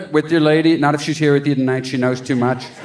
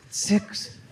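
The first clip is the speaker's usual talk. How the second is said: mouthed numbers; 6 semitones higher, 10 dB quieter than usual. Retold or imitated.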